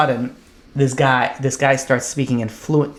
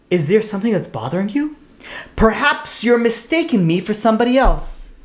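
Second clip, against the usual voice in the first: higher, formal imitation of an English accent; politely puzzled, in a mock English accent; 5 semitones higher than usual. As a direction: lightly put on a proper English accent. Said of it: "he says in a perfect English accent".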